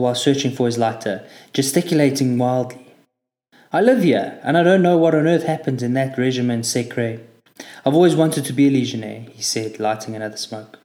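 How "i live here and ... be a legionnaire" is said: chatty local Frenchman teasing the recruit; a hint of a French stranger's voice; French driver.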